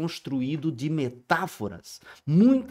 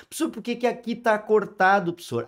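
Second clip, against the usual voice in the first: lightly voiced curious student; mock student question; 6 semitones higher, faster than usual. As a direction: ask like a puzzled pupil. (aluno curioso, de leve)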